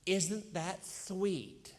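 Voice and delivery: very slow, sugary pastor voice; saccharine pastor. Retold or imitated. Pastor mocking a sugary preacher, slow and saccharine. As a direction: drag it out like a syrupy preacher. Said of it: "like one of those pastors".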